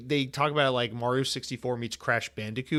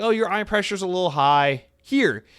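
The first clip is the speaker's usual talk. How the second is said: higher, louder put-on voice for the doctor; mocking doctor voice; 6 semitones higher, 6 dB louder than usual. Mocking the eye doctor who prescribed drops, higher put-on voice. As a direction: ham up the doctor's breezy verdict.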